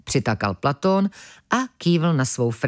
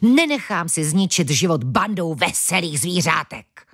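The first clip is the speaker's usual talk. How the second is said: hissing with anger. Acted. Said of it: "syčel Platón na ventilka".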